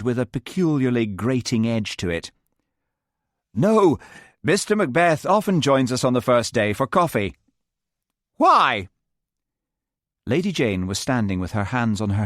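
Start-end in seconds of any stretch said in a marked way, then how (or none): 3.5-7.3 John's voice. A narrator's reading. John answers Lady Jane. 8.4-8.9 demanding. A narrator's reading. Lady Jane demands.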